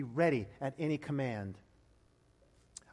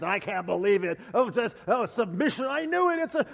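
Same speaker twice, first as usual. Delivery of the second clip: mock rant; 2 semitones higher than usual. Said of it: "waving her hands".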